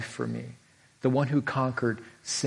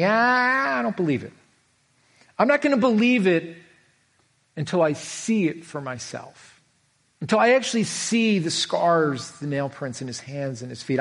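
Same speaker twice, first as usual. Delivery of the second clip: emphatic doubter; 3 semitones higher than usual. Retold or imitated. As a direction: dig in and refuse to believe. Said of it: "He was emphatic".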